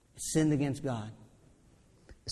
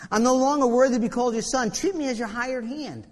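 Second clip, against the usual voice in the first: pained plea; 5 semitones higher, 3 dB louder than usual. Acted. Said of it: "You hear the pain in his voice".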